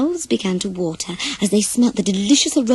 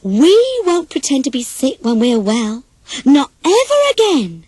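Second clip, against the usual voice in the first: resolved vow; 3 semitones higher, 4 dB louder than usual. Acted. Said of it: "they said sadly".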